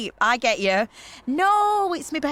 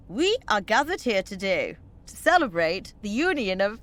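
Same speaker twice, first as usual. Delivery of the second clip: mock wedding vicar; 3 semitones lower than usual. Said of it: "No, seriously".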